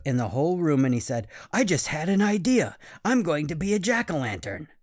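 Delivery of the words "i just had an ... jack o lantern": put-on excited boy. Boy waking his family, thrilled with his idea. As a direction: announce it to the whole room, thrilled.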